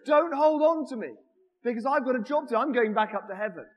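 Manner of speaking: insist, loud and pressing, as Jesus; a loud, urgent Jesus voice. Pretend. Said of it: "wasn't quite that".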